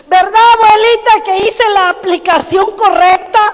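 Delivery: granddaughter asking. Retold or imitated. Granddaughter voiced, pleased.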